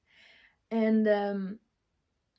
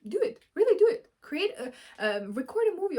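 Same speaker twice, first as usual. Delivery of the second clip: urgent encouragement; 6 semitones higher, 6 dB louder, faster than usual. Real, not acted. Urging viewers.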